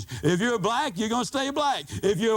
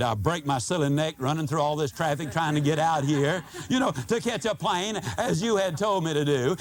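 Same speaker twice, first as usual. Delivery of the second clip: sarcastic; 4 semitones lower than usual. Retold or imitated. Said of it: "I could have said".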